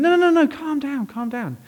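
high run of no's, then easing down; re-enacted urgent reassurance; hurried placating. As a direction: cut in to settle a panicking friend. Acted friend soothing his panic.

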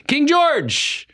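high, drawn-out herald's cry; hammed-up herald calling out the king's name; mock royal hail. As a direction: announce the king like a court crier. Mock hailing the king.

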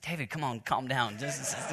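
a hint of a brother telling him to calm down, quietly. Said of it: "he's like".

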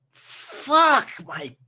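slow, loud agonized shout; stretched, high-pitched yell of pain; pained outcry. Acted. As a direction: cry out in pain after a bad fall. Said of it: "you hear him go".

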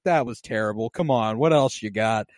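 low, unbothered Hound voice; a hint of a gruff Hound. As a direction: taunt him, low and dismissive. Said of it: "And he's like".

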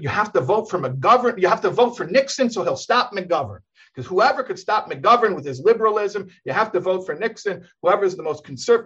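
lightly voiced fiery preacher; railing preacher. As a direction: ham up an old rabbi railing from the pulpit. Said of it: "it's very harsh language".

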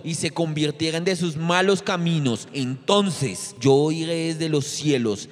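solemn preacher's scripture read; forceful scripture reading. Acted. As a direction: declare each line like God's own promise.

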